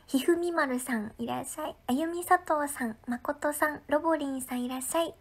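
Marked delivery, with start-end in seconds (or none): none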